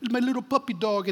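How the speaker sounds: put-on high, syrupy Georgia-accented storyteller; a touch of Georgia accent; mock Georgia drawl. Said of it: "sounded like he was from Georgia".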